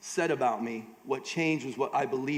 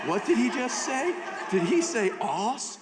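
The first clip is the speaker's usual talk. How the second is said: higher-pitched, incredulous questioning; mock shocked listener; 7 semitones higher than usual. Imagined listener reacting to the preacher's word, mock shock. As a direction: act out a scandalised double take. Voicing startled listeners to his slip.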